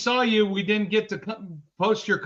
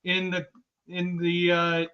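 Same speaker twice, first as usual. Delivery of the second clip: choking on saliva. Real, not acted. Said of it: "Sorry, I'm choking on my own saliva".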